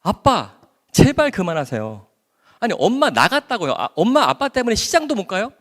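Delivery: high, loud exasperated outburst; angry scolding. Retold or imitated. Daughter yelling at her father to stop calling. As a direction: let your patience snap at him. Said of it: "엄청 뭐라 했어요".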